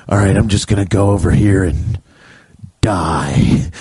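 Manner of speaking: low, resigned little mumble; meek dying cat. Retold or imitated. A cat calmly wandering off to die. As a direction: shrug off dying like it's nothing.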